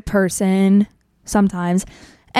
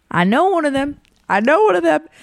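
higher and brighter, the voice lifting as it sinks in; excited recognition; 5 semitones higher than usual. Retold or imitated. At the beer pong table, recognizing a crush, pitched up with excitement. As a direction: say it like you just realized who he is. Spotting a guy she knows.

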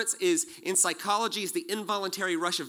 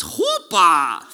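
loud, slow call of the word chuppah; shouting; 11 dB louder than usual. Shown as a demonstration. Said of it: "I'm gonna say the word".

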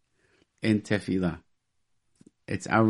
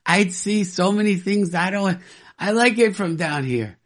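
higher, cheerful quoting of a friend; lightly voiced short friend; 8 semitones higher than usual. Retelling a short friend's joke at a funeral, lightly higher. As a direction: toss off his line a bit higher, amused. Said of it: "He says".

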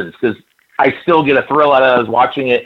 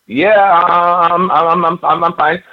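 higher-pitched, tripping over the words; nervous stammering; 5 semitones higher, slower than usual. Retold or imitated. Teen answering his wrestling idol, stammering. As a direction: imitate a starstruck stammer, stuck on the first word. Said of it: "I'm stammering 'cause I was like".

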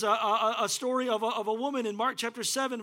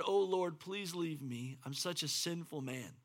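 pleading softly; 5 semitones lower, 7 dB quieter than usual. Acted. Peter fallen on his knees pleading.

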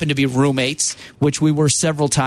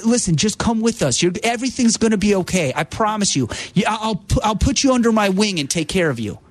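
higher, gently promising friend voice; reassuring; 5 semitones higher than usual. Retold or imitated. Friend reassures the young producer, higher and gentle. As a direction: take him under your wing. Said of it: "The reassuring".

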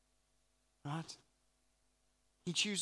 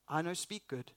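mock broken English; 3 dB quieter than usual. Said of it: "is essentially what Moses is saying".

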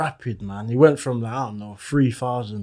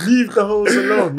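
higher comic skit voice; skit character voice; 6 semitones higher, 3 dB louder than usual. Retold or imitated. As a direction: say it like the skit punchline. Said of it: "That's what I was basically saying".

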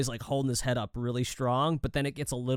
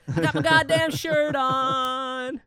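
put-on high, slow little-kid voice, dead serious; dad mimicking his son parroting mom's swear; kid's deadpan reply; 11 semitones higher, 4 dB louder, much slower than usual. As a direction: repeat it back like a proud small boy. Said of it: "Just dead".

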